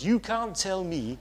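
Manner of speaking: put-on quoting an old Sunderland mate in his accent, only partly managed; attempted Sunderland accent. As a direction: Bible college friend from Sunderland quoted, mild Sunderland accent. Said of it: "I can't exactly do his accent".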